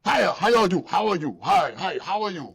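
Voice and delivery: lightly voiced salesman charm; fake friendly landlord. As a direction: ham up the eager hello. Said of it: "Aren't you the guy who told me".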